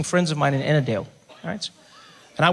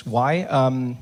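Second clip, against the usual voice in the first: normal talking voice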